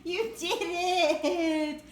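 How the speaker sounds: slow, laughing cheer; delighted laughing you did it; laughing praise. Real, not acted. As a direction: stretch it out through laughter. Praising pet finding treat.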